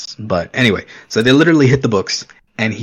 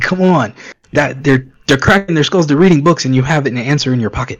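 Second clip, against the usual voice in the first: higher-pitched, mildly worked-up protest; exasperated; 4 semitones higher, 3 dB louder than usual. Retold or imitated. Viewer recalling his gripe at the characters, mildly exasperated. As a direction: plead with the clueless characters, pitched up. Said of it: "it bothered me so bad".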